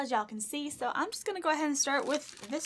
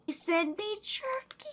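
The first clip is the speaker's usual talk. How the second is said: high, slow, incredulous lilt; astonished delight; 10 semitones higher, slower than usual. Real, not acted. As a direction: stretch it upward in amazement. Astonished by gift of jerky.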